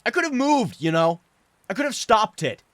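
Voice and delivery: tears pouring out through the yelling; sobbing outburst. Acted. Son screaming his guilt at his father, sobbing. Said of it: "sobbing the little of what remained".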